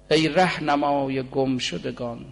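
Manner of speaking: slow, drawn-out devotional verse; poem recitation. Acted. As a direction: intone the line slowly like a prayer.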